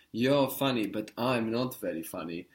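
"You're" and "I'm" set against each other with stress; contrastive stress. Shown as a demonstration. Teacher shows student a contrast, stressing "You're" and "I'm". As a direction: punch "You're", then lean on "I'm". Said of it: "making this kind of contrast".

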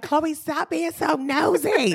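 high, slow mock scold; mock scolding friend. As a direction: scold her like an annoyed friend. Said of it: "you used to yell at me".

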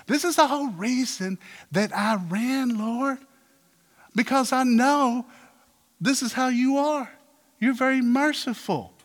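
high-pitched, aggrieved complaint; angry prophet. Acted. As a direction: protest to God as if saying I told you so. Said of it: "this is what made him angry".

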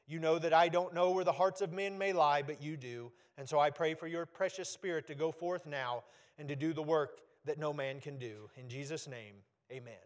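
earnest, reverent prayer voice. Acted. Pastor praying for the congregation before preaching, reverent. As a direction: pray over the congregation.

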